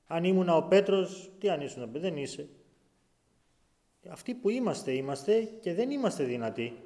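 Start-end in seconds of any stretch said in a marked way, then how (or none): 0.1-2.5 mock boast. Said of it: "λέει".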